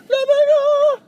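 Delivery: sudden high yell. Real, not acted. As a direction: shout the word out. Impatient at waiting junction.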